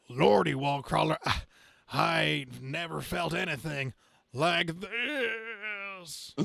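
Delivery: high, slow, cracking, half-laughing pain; hammed-up pained hero. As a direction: gasp it out like a hurt hero, hammed up. Character gasps in pain.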